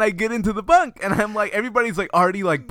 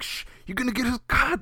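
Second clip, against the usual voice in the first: higher, softer warning; mock shushing; 4 semitones higher, 5 dB quieter than usual. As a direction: imitate an anxious hush. Bunkmates hushing him in story.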